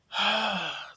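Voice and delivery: breathy, voiceless sigh; weary sigh. Real, not acted. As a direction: let out a frustrated sigh. Frustrated at lingering illness.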